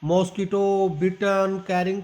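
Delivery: मॉस्किटो, बिटन, कैरिंग each hammered with heavy stress; wrong heavy stress. Shown as a demonstration. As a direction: show the choppy wrong stress. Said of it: "अगर आप ऐसे stress डालेंगे". (हर शब्द पर भारी stress)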